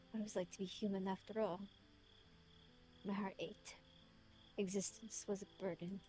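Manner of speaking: put-on measured British-accented letter reading; his British voice. Reading his letter aloud in character, British voice. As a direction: read it as a self-reproaching British man. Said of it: "Let me read it in his voice".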